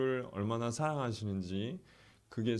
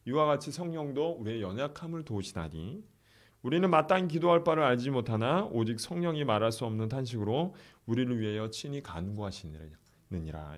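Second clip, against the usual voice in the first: scripture reading. Acted. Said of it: "이렇게 얘기합니다".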